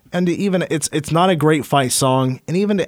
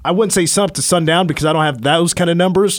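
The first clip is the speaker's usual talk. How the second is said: put-on a slight Southern Alabama accent; Auburn accent. A touch of Southern Alabama accent, joking about cleanup numbers. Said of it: "that was my Auburn accent".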